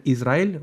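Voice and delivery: "Israel" with a plain initial I. Shown as a demonstration. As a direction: open "Israel" on a clean ee vowel. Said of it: "van a ver que siempre pronuncian".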